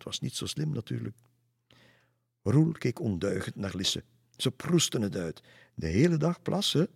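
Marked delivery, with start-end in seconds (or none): 5.7-6.9 high, loud, delighted question; gleeful crowing. A narrator's reading. Lisse relishes Roel's naughty punchline, crowing gleefully. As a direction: squeal it with delight, pitch climbing. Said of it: "kirde Lisse".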